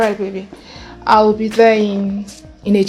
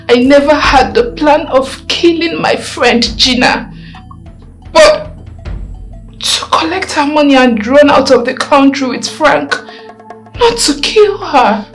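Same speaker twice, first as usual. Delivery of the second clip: raised, pleading voice insisting on innocence; desperate denial; 3 semitones higher, 5 dB louder than usual. Acted. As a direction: push it out louder, begging to be believed. Suspect denies killing under interrogation.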